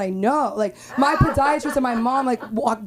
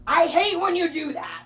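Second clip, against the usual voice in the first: put-on childish whine; 8 semitones higher than usual. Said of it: "And then I just go".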